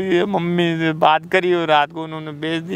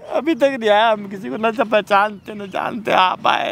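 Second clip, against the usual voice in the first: tearful; 3 semitones higher than usual. Real, not acted. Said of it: "रो मत, रो मत".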